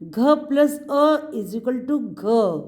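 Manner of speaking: very slow, word by word, teacher spelling घ plus अ; a patient teacher showing children how घ is built. Shown as a demonstration. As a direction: spell it out slowly like on a blackboard. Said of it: "हम भी घ बोल लें".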